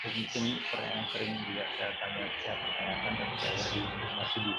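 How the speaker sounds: choppy, breaking-up phone line; words cutting out over the call; bad connection. Real, not acted. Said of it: "suaranya putus-putus".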